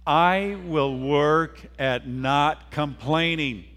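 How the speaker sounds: slow, measured pledge for others to join; deliberate, drawn-out recitation at moderate volume; congregational pledge. Shown as a demonstration. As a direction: lead the group word by word. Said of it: "Will you say that with me?".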